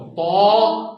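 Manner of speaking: तो said thick and loud; teacher's heavy तो; heavy emphatic ṭā. Shown as a demonstration. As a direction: sound तो full and heavy. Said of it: "मोटी आवाज से निकलो".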